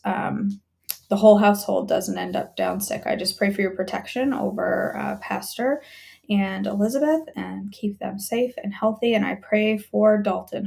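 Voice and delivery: earnest, even-toned intercession; praying for friends by name, unhurried and sincere; spoken prayer. Real, not acted. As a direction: pray aloud in a steady, conversational flow.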